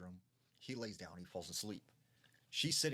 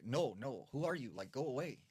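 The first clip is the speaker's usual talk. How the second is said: higher, mildly acted alarm; mother's alarmed refusal; 4 semitones higher, 3 dB louder than usual. Mother to the unknown man under the bed, alarmed refusal. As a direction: retell her startled protest.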